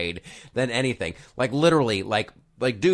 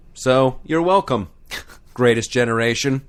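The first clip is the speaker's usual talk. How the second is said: loud, high patriotic salute; 4 semitones higher, 5 dB louder than usual. Pretend. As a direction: cheer the greatest generation.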